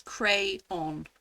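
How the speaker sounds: "crayon" split clearly as CRAY-ON; two syllables. Shown as a demonstration. Brit showing her two-syllable "crayon", carefully split. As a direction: say "crayon" with both syllables distinct. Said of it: "two syllables".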